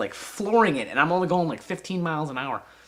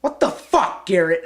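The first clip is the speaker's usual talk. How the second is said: high, loud re-enacted outrage; pissed-off dad; 4 semitones higher, 6 dB louder than usual. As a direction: yell like a furious father. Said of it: "He's pissed".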